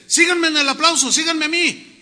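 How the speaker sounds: loud call to follow the clapping; mock leader calling the beat. Leader calls congregation to clap.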